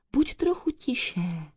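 slow, hushed and soft; whisper. A narrator's reading. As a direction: whisper a gentle shushing request. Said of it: "zašeptal známý hlas".

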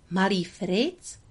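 slow, puzzled question; puzzled wonder. Acted. Lady wonders aloud who Fritz is. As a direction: ask it as if the name makes no sense. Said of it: "podivila se Lady".

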